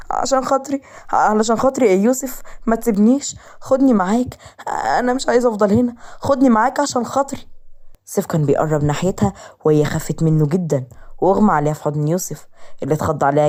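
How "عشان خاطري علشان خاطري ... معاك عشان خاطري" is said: desperate begging, pitched higher; pleading. Acted. Frightened wife begging her brother to take her away, pleading.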